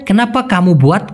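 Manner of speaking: very slow, each Malay word spaced out; slow clear Malay. Shown as a demonstration. Teacher to Bengali learners, very slow careful Malay. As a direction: spell the phrase out by ear for learners. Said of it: "ওরা বলে".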